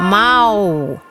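a soft, round cat meow with a firm edge; soft but firm meow. A narrator's reading. Giant forest cat answering the crowd, soft firm meow. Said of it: "pehmeän, mutta kovan maukauksen".

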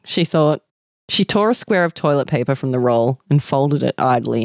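measured story reading aloud; story narration. A narrator's reading. Reading a shortlisted story to listeners, measured narration.

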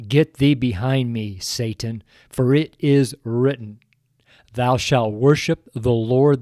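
solemn, measured Bible reading; scripture reading. Acted. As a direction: read it like holy scripture. Reads scripture aloud.

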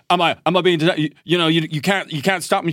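a hint of an indignant American tourist; mock American protester. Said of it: "his American kinda like".

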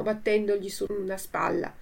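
ordinary delivery

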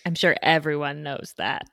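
dry, understated sarcasm; sarcastic. Real, not acted. Co-host teasing guest about an obscure awareness month, sarcastic. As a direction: say it as a tongue-in-cheek certainty. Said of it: "I'm being sarcastic".

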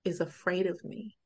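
retold tearful dad. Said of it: "he started to cry".

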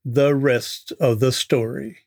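a light Paul Harvey impression, drawn out; dramatic slow broadcaster pause before the rest of the story. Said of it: "here's where Paul Harvey would say".

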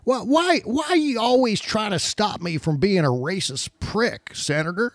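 a hammed-up Southern senator complaining; mock Kennedy voice. Host mocking Senator Kennedy, mock Southern whine.

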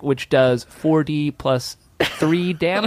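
slow, precise game-master voice; nerdy game voice. Pretend. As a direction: read the damage like a true nerd. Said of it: "he's getting nerdier".

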